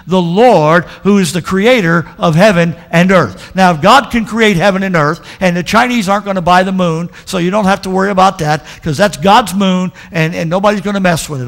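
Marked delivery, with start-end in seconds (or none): 0.1-7.1 loud emphatic preaching; full-voiced sermon climax. Real, not acted. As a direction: lift it up to the congregation. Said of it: "preaching climax".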